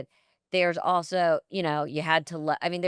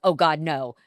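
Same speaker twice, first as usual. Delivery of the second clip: 1 yelling at the TV; 6 dB louder than usual. Retold or imitated. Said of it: "you're like".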